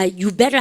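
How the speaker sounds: "You better" with no d after "You"; dropped D. Shown as a demonstration. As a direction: run "You" straight into "better". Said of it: "그냥 우린 그냥 드로 하고". (드 발음 없이 "You better")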